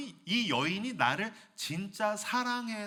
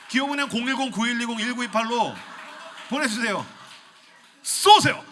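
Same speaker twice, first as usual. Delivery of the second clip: loud, higher hawker-like appeal; mock fundraising pitch; 5 semitones higher, 11 dB louder than usual. Pastor jokingly begging youths for transfers, loudly excited. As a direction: belt it out with playful overexcitement.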